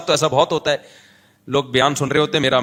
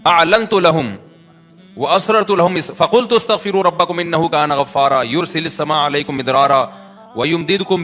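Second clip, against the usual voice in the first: flowing, sustained Arabic recitation; Quran recitation. Acted. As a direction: recite the verses in one flowing chant-like run. (روانی سے تلاوت)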